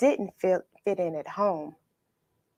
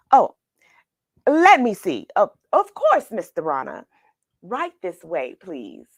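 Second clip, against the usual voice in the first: fussy waiter voice; 6 dB louder than usual. Acted. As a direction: play the host bowing guests in. Waiter greets disguised Samson.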